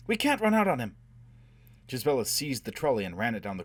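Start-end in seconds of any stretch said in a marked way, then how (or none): 0.1-1.0 high, loud cry of refusal; desperate protest. A narrator's reading. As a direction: protest loudly, pitch way up. Protesting amid the raid.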